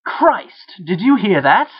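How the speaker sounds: high, loud alarmed squeal. A narrator's reading. Jake hearing the voice, squealing high in alarm. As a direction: yelp it out in panic. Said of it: "Jake squealed".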